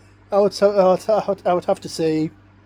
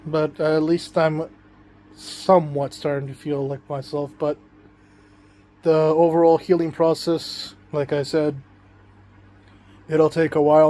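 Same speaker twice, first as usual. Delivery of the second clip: groggy from anesthesia. Real, not acted. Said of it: "I do apologize if I sound a bit, like, groggy".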